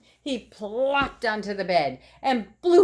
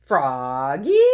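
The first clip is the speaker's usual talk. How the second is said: a mother calling up the stairs, louder; 4 semitones lower, 6 dB louder than usual. Acted. Scene: mother calls Froggy to wake him, louder. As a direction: call his name from another room. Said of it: "called his mother".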